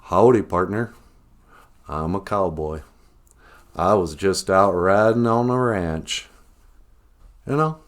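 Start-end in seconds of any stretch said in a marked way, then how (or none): 0.0-6.3 stereotypical movie cowboy. Retold or imitated. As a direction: play a hammy western cowboy. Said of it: "a stereotypical cowboy voice".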